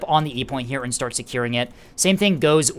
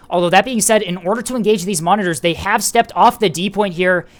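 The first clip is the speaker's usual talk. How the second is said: higher, louder play-by-play; excited; 5 semitones higher, 5 dB louder than usual. Real, not acted. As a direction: keep the energy up. Caster hyped by flank attack.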